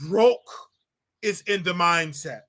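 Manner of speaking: slow, smug "Broke" drawn out then "is in the mindset"; mock rich man's lecture; mocking rich folks. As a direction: sneer it like a rich man lecturing the poor. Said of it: "this is what rich folks say".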